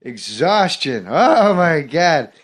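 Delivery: lightly voiced rambling deadpan Norm; Norm Macdonald impression. Comic on stage doing Norm rambling about exhaustion, light impression. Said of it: "I was doing Norm Macdonald".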